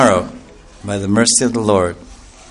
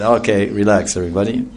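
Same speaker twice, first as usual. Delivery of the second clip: soft, lower, settling the crowd; calming; 3 semitones lower, 5 dB quieter than usual. Acted. Lord Chaitanya calming the huge crowd, soft and reassuring. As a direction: hush the crowd gently. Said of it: "Lord Chaitanya came outside and said".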